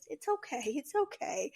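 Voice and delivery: softly reassuring murmur; soft, soothing. Retold or imitated. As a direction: imitate a father quietly soothing his crying daughter. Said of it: "you can tell in his voice".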